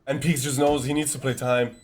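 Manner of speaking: tense play-by-play call; esports caster. Acted. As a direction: call the clutch moment live. Live play-by-play.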